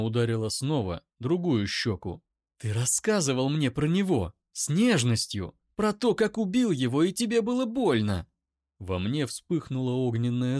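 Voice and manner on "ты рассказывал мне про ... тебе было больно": building from loud to high scream; rising fury. Acted. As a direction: climbs into a shriek. Eira accuses him.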